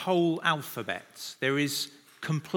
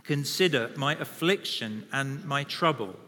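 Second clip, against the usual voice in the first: many voices in unison. Real, not acted. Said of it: "We're gonna read it aloud together".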